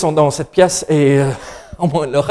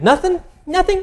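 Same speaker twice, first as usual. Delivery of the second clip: put-on small child's tiny, very high voice; 14 semitones higher, 5 dB quieter than usual. Retelling his son's answer when asked what he was doing: imitating Yann's little voice. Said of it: "avec sa petite voix".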